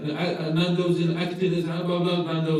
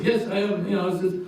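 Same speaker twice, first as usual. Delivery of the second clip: lightly imitated Iraqi accent, pitched up; higher-voiced Iraqi takeaway owner impression; 5 semitones higher than usual. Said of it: "Oh, Iraqi".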